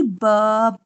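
short isolated ब sound as in ball; phonic sound. Shown as a demonstration. Teacher showing kids the phonic sound, crisp. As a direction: clip ब into a single crisp consonant sound. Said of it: "पढ़ाया जाता है बी".

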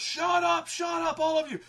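very high, loud screaming command; shouted order. Retold or imitated. Tempest silencing the laughing crowd, screaming command. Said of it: "and he goes".

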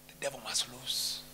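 very low, soft, distant; low far-off rumble. Shown as a demonstration. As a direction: growl it low and quiet. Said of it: "repeated louder".

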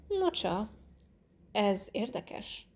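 slow, musing murmur. A narrator's reading. Detective studying the moved armchair, murmuring. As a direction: murmur it slowly, half to yourself. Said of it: "mormolta Poirot".

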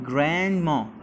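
"grandma" slowly, holding back the D's puff; D without air. Shown as a demonstration. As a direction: say "grandma" with the D unreleased. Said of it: "ما بطلعش هواها". ("grandma" من غير هوا الدي)

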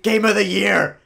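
high, breathless squeal of delight; excited gasp. Real, not acted. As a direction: gasp and gush over the dog. Sees a husky, gasps.

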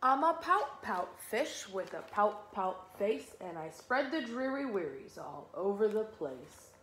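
lilting, measured storybook rhyme; children's story reading. A narrator's reading. Teacher reading a rhyming fish book to children, storytelling. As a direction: read it in bouncy verse, sinking at the end.

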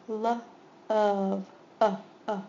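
segment by segment; sounding out love. Shown as a demonstration. Teacher sounding out a word for students, segmented. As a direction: split love into L, of, uh. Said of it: "This doesn't make the O sound".

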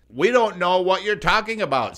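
high squeaky piggy voice; high mock squeal. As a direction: squeal it like a guilty little pig. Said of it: "squealed the little piggies".

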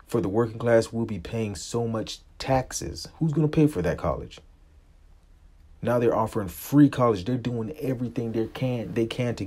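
indignant shout to the viewers about free college; angry outburst. Real, not acted. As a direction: let the outrage boil over about taxes. Rant peaks into outrage.

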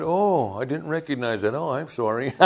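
soft, innocent-sounding retold apology; mock apology. Preacher to annoyed diner, mock-innocent apology. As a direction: play innocent, apologizing quietly.

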